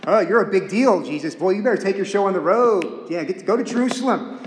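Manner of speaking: mildly mocking, teasing a big shot; a touch of scornful sibling sarcasm; mock sarcastic brothers. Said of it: "They're being sarcastic".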